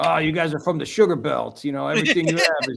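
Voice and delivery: put-on quick, chatty New York accent. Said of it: "in his New York accent".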